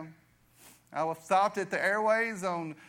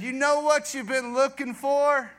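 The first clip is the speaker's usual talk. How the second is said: raised, loud, drawn-out proclamation; voice of God; 7 semitones higher, 5 dB louder, slower than usual. Retold or imitated. God answering the searching man, loud proclamation. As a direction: proclaim it slowly as God's answer. Voicing God's answer to him.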